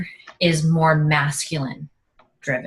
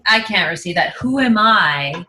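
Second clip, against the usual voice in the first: high, loud mock recoil; flustered refusal; 4 semitones higher, 3 dB louder than usual. Someone refusing what they asked for, mock flustered recoil. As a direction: act out backing away from a gift. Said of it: "we're like".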